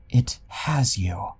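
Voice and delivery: slow, eerie breathless whisper. Acted. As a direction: whisper it like a dark omen. Ghostly warning in a basement.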